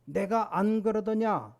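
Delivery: slow, reproachful told-you-so; mock quarrel rebuke; told-you-so quote. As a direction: drag it out like scolding in a quarrel. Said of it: "우리가 싸움은 그런 말하지 않습니까".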